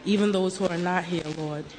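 praying while choking; words pushed through a choke. Real, not acted. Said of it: "I'm choking".

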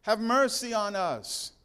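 desperate loud plea for mercy; crying out. Acted. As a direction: call out to be heard from a distance.

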